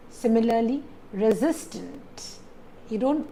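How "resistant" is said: resistant slowly, stressed on the middle syllable SIS. Shown as a demonstration. Teacher gives an example, stressing resistant on SIS. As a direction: keep RE light and lean on SIS in resistant. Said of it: "put the stress on re".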